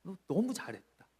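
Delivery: fond praise. Acted. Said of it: "귀하게 여겨주시는 거예요".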